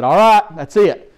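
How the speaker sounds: lightly voiced official ending the game; a hint of an umpire's call. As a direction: announce it's over, brisk. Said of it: "And they said".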